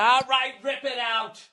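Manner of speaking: high, strained okay to the plumber; squeezed high voice; mock go-ahead. Acts out his own resigned reply.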